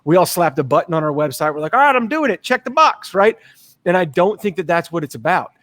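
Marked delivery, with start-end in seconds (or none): 1.7-3.1 mock careless dealer; mock dismissive. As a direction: toss it off like a lazy checklist. Mocking dealers' covid button rush.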